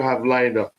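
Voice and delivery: hoarse, tired voice; losing voice. Real, not acted. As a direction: voice going hoarse. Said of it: "I'm sounding like I'm losing my voice".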